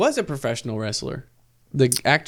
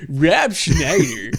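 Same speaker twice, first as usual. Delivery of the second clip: slow, dramatic trailer announcer; movie trailer voice; 3 dB louder, much slower than usual. Retold or imitated. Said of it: "like, the movie trailer voice".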